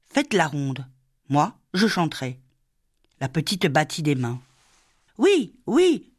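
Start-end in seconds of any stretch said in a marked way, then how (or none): 5.2-6.1 put-on high clapping child's delight. A narrator's reading. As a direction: squeal yes with joy. Little girl claps her hands.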